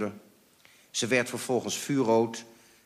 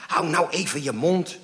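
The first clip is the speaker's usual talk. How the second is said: higher, louder telling-off; cross hushing; 7 semitones higher, 5 dB louder than usual. A narrator's reading. Mother silencing father during the phone call, cross. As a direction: shut them up crossly.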